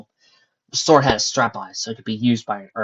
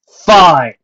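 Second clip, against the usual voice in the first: loud, high, slow proclamation; stern captain; 6 semitones higher, 14 dB louder than usual. A narrator's reading. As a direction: lay down the law to the crowd. Captain relents.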